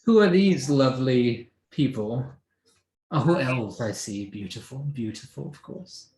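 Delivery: mother judging her daughter's looks; snooty mother. Acted. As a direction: lift the pitch and sneer it sweetly. Mother meets elf friends.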